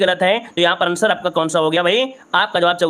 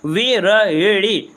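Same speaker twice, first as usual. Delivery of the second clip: विरहड़ी drawn out very slowly, syllable by syllable; slow spelling out; much slower than usual. Shown as a demonstration. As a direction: stretch विरहड़ी slowly for the students. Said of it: "क्या होता है?". (धीमे-धीमे, विरहड़ी को खींचकर बोलना)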